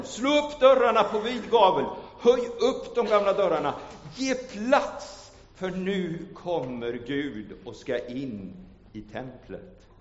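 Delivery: high, loud call to open the doors; proclaiming call. Acted. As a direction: ring out the psalm like the temple crowd. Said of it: "Därför säger de".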